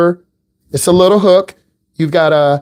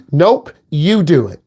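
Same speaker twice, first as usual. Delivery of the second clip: slow, flat, firm no; a parent who won't budge; firm parent refusal; slower than usual. Retold or imitated.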